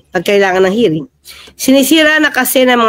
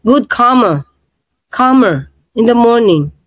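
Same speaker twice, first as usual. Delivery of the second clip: mock British accent. Repeating the British phrase for viewers, mock British accent. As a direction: put on a British accent, word by word. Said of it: "Ganyan po ang British".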